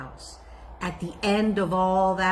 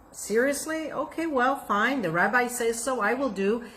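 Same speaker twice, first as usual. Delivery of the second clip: reluctant; 4 semitones higher than usual. Acted. Man reluctantly agrees.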